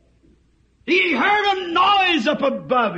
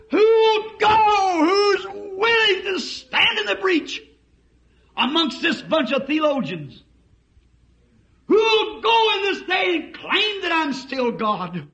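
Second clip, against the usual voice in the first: voice of God; 7 semitones higher than usual. Acted. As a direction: call out over the crowd for volunteers. Voice of God calling out. (God's voice crying out, who will go)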